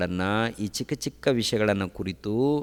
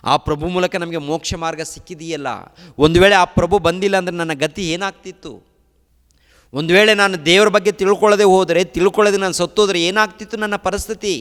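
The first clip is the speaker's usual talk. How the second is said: raised high, loud and driving pulpit cry; fiery preaching; 11 semitones higher, 11 dB louder than usual. Acted. Preacher crying out to the congregation, fiery and loud. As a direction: preach it out with full force. Preaching builds to full force.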